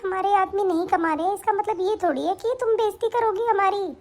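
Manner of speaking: put-on hurt older sister, close to tears; a touch of tearful pleading; tearful reproach. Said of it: "ये रोने धोने की acting है ना".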